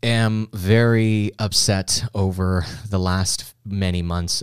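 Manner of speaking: slow solemn mock preacher voice; lightly hammed-up holy tone. Mock preacher announcing prayer line.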